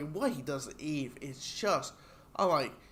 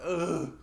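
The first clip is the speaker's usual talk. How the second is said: disgusted groan. Retold or imitated. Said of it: "and I'll be like".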